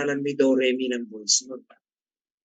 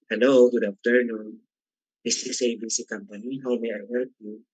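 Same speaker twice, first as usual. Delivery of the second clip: phone greeting pitched low and dropping softer; 4 semitones lower, 4 dB quieter than usual. Shown as a demonstration. Teacher demos answering for A B C Company, pitched low. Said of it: "Pag nandiyo, do".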